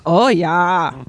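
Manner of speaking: imitating a Minnesotan, drawn-out oh; Minnesota accent. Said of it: "I would just keep saying".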